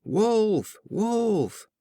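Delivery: put-on a boy calling the village for help; crying out wolf. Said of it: "by crying out".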